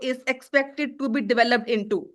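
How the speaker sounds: slow, word-by-word example sentence; slow dictation. Shown as a demonstration. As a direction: let them copy every word. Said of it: "teacher dictates a useful phrase". (उदाहरण वाक्य धीरे-धीरे लिखवाना)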